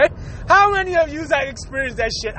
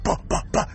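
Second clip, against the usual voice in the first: imitated knocking; 6 dB quieter, faster than usual. Imitates knocking on bathroom door.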